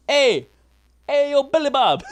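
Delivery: high shouted redneck greeting; redneck mobster call. Retold or imitated. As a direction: holler it like a redneck hood. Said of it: "Other guy would be like".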